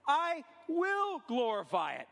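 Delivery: slow, booming heavenly voice. Acted. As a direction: boom it out slowly from above. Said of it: "He says".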